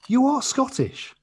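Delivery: high, loud, drawn-out disbelief; incredulous high-pitched complaint, played for laughs; mock exasperation. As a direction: protest in baffled amazement, stretching the key words. Acted exasperated thought at bad accent.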